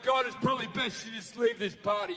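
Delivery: hurried polite request. Acted. Guests politely eject God.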